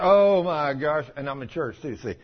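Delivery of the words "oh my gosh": slow, loud put-on moan; hammed-up woe on a drawn-out "oh"; mock groaning complaint. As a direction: imitate a suffering churchgoer. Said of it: "Do you hear people talk like that".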